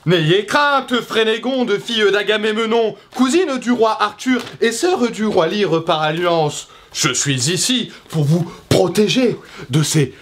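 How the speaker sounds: high, grandiose heroic knight; hammy knight. Acted. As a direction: declaim like a stage hero. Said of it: "nous devons faire des vidéos mieux jouées".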